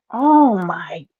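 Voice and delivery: breathless, slow frightened whisper; a half-playful scared whisper; whispered oh my God. Real, not acted. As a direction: hush it out in mock fear. Just got scared of the rapper.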